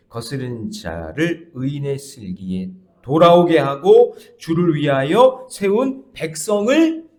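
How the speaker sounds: loud, slow preaching read; forceful scripture reading. Acted. Pastor reading the verse to the congregation, loud and slow. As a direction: proclaim the verse at full voice.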